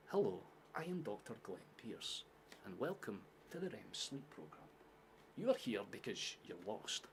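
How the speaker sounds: measured, soft Scottish game narrator; soft Scottish voiceover. Acted. Game doctor welcoming the player to a program, soft Scottish voiceover. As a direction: welcome them in a soft Scottish accent, with pauses. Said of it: "Scottish guy that does a voice".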